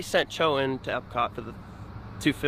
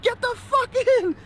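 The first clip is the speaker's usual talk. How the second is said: very high, strained retold shout; urgent order. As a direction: bark at him to get in now. Ordering friend into car.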